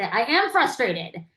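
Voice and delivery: acted frustration, leaning hard on "am"; emphatic admission. Acted patient confirming the named emotion.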